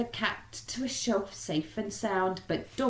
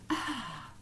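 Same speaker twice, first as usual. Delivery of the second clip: contented sigh; 6 semitones higher, 5 dB quieter than usual. Acted. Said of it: "sat down with a".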